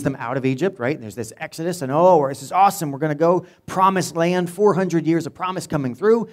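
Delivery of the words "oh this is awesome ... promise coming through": high, loud, eager cheering of the people; excited crowd. Retold or imitated. Preacher voicing the hopeful Israelites, excited. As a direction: sell their big excitement about the promise.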